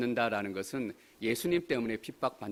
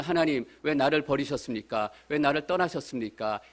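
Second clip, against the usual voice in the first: mildly raised voice, imitating a plea; mild retold cry; 3 semitones higher, 4 dB louder than usual. Believer in hardship questioning God, mild retold cry. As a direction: cry out to God with some restraint. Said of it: "이렇게 하나님 앞에 소리쳐요".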